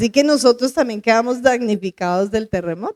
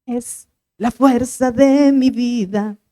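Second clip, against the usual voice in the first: declaring; slower than usual. Retold or imitated. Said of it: "Y yo empecé a decir".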